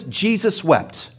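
slow solemn reading. Shown as a demonstration. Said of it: "Notice this".

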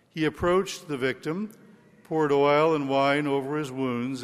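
solemn liturgical Gospel reading. Real, not acted. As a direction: proclaim it like scripture at Mass. Priest proclaims the Gospel.

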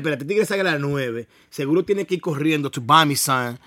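put-on woman scheming in a light Dominican accent. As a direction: Spanglish with a Dominican lilt, understated. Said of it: "you're doing a Dominican accent".

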